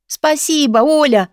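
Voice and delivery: heartfelt thanks. A narrator's reading. Guest thanks her friend for shelter, heartfelt. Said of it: "от души поблагодарила подругу".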